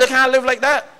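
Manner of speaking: shouted no, rising high; preacher's loud correction; loud rebuke. Real, not acted. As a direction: call the church out, full voice.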